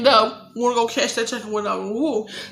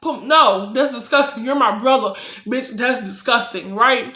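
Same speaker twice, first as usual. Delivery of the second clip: retold furious telling-off. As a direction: tear into him in full outrage. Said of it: "So I'm like".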